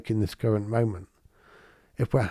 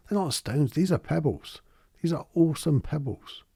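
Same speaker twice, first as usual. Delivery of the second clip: higher-pitched, mock-indignant correction; mildly annoyed child; 4 semitones higher than usual. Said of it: "it used to annoy me".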